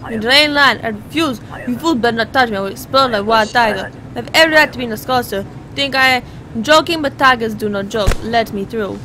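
mock defiant traveller in put-on accent; indignant refused traveller. Refused traveller threatening the border guard, mock indignant. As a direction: play a blustering traveller, firmly voiced.

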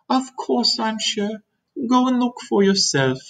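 put-on high, measured boy's voice; confident James.

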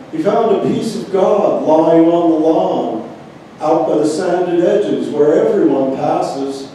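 deliberate recital, line by line; poetry reading. Acted. Reading a friend's poem to a gathering, deliberate poetry reading. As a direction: recite the verse with weight on each phrase. Reads another poet's lines.

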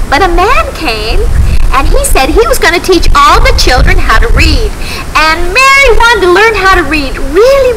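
put-on gentle storyteller for kids; reading to children. A narrator's reading. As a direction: tell it like a Sunday school story. Telling Bible story to children.

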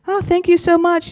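high-pitched gushing thanks; mock sweet thanks. Comic thanks the reluctant agent after the pat-down, mock gushing. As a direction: put on a high, grateful little voice.

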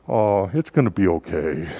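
soft-edged, lightly imitated soothing; imitating a mother's there-there tone; mother's reassurance. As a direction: comfort like a nurse mother. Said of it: "She would make things okay".

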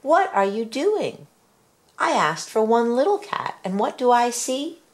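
high, exasperated questions; wife scolding husband for the cats; dismayed scolding. A narrator's reading. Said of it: "she cried".

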